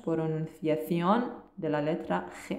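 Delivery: drawn out, each syllable stretched; extra slow Spanish reading; very slow reread. Shown as a demonstration. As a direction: repeat it very slowly for learners. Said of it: "یه بار دیگه تون بخونمش".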